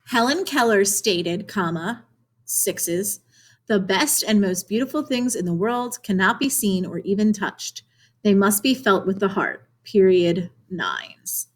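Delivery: teacher voicing "comma" and "sixes" before the quote and "period", "nines" after it; reading punctuation aloud. Shown as a demonstration. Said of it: "Notice how I said the punctuation".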